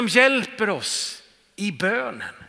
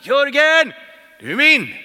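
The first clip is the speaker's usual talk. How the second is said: called out louder, like a joyful shout; crying out; 5 semitones higher, 8 dB louder than usual. Acted. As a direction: ring it out as the Spirit calling your name. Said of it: "som ropar". (den helige ande ropar i honom: glatt utrop)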